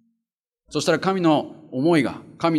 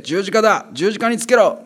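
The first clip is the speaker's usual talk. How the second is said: higher, insistent crowd cry; crowd's shout; 7 semitones higher, 4 dB louder than usual. Acted. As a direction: cry it out as the mob. Crowd demands crucifixion. (群衆の叫び、高く強く)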